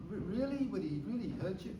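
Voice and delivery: high, startled really; a stunned, disbelieving really; shocked disbelief. Retold or imitated. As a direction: gasp out the question in disbelief. Shocked at the husband's violence.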